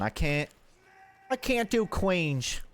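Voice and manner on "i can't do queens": attempted Queens accent. Shown as a demonstration.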